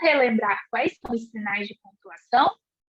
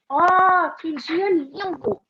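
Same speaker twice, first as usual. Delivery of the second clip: um Oh alto e maravilhado; encante-se com o dia, devagar; surpresa; 5 semitones higher, 3 dB louder, slower than usual. Shown as a demonstration. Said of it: "a surpresa representada". (surpresa encantada e lenta)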